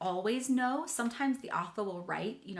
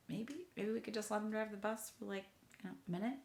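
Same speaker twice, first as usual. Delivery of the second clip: giving in; 8 dB quieter, much faster than usual. Retold or imitated. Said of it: "I was like".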